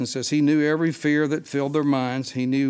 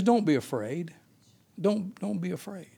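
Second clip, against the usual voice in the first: fading softer to a hush; comforting a scared crew, softer and softer; gentle reassurance; 3 semitones higher, 5 dB quieter than usual. Retold or imitated. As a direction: soothe frightened men, growing softer. Jesus soothing the disciples.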